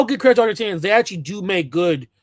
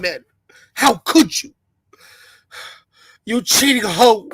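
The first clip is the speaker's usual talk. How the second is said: mock crying; 4 semitones higher than usual. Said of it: "about to cry".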